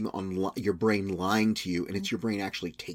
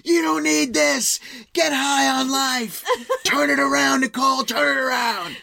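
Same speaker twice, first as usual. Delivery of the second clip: slow, high, earnest preachy voice; after-school special plea; slower than usual. Retold or imitated. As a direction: plead like a corny TV hero. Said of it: "And you're like".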